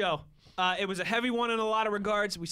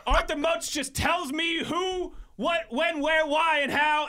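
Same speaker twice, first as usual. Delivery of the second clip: laughing while talking; 8 semitones higher, 4 dB louder, slower than usual. Real, not acted. Laughing while telling the bit.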